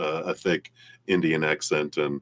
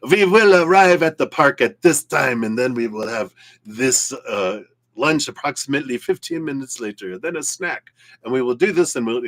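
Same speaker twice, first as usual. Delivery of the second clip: mock German accent, higher and louder, stiff and precise; 7 semitones higher, 5 dB louder than usual. Reader mocking the girlfriend's planning in a German accent. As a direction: put on a hammed-up German accent reading out a strict schedule. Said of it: "in a German voice".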